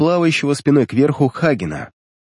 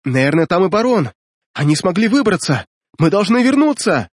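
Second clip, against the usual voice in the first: shouting witch; 7 semitones higher than usual. A narrator's reading. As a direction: urgently call the boat back. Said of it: "А это уже кричала ведьма Рауман".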